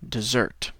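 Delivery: "Dessert" slow and careful; model word. Shown as a demonstration. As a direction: say "Dessert" for students to repeat. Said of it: "D E S S E R T".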